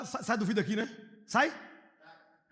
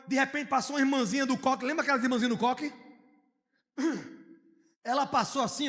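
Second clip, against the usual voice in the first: ordinary talk, nothing marked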